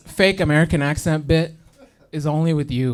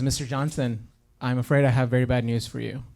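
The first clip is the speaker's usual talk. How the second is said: put-on soft, low American-accented doctor; 3 semitones lower, 5 dB quieter than usual. Doctor phoning a patient with bad news, American accent. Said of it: "But instead, if you heard".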